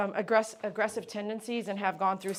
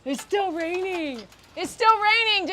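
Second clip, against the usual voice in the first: much higher, louder sing-song cooing; 11 semitones higher, 8 dB louder than usual. Real, not acted. Groomer gushing to the happy dog that daddy arrived, high baby talk.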